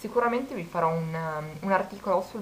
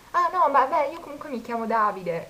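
much higher, louder hurried imitation; hammed-up flustered flirt; mock flustered guy; 8 semitones higher, 5 dB louder than usual. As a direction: act out his panicked attempt, pitched up. Guy stopping her leaving.

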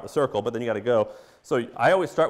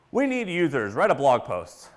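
mocking naive marketers; 5 semitones higher, 4 dB louder than usual. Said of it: "they just say, like".

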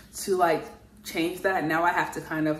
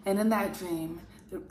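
a touch more solemn and deliberate, with pauses between phrases; Michael. Acted. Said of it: "So we'll have Michael next".

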